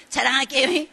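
playful rising "자랑할게요" repeated with the same lilt; teasing boast again. Retold or imitated. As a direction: keep teasing the endless build-up. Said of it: "계속 아직 자랑도 못하면서 자랑".

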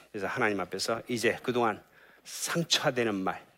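soft, earnest sermon close; closing prayerful appeal. Acted. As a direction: urge the flock tenderly. Closing exhortation. (성도들에게 부드럽게 간곡히 권면하는 설교 마무리)

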